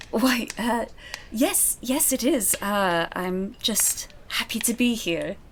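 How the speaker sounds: a hint of a flustered young maid, halting; nervous servant girl answering a gentleman; shy maid. GM voices maid Rosamond.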